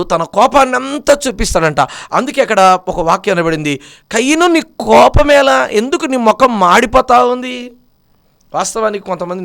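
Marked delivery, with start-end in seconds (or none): 4.1-7.7 higher, slow rebuke to Cain; God asking Cain why he is angry; rebuking Cain. Acted. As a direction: call him out, drawn out and raised.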